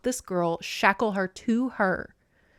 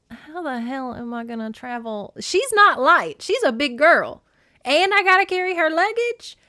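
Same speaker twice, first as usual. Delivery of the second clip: mock outraged porter, louder and higher on the protests; indignant complaint; 7 semitones higher, 6 dB louder than usual. Hermes complaining about hauling Persephone's luggage, mock outraged. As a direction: grumble like a put-upon servant with the bags. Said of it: "And Hermes is like".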